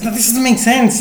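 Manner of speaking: high-pitched exasperated protest; imitated anger. Chemist retold objecting to the process, imitated exasperation. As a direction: act out his frustrated outburst. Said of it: "I just get angry".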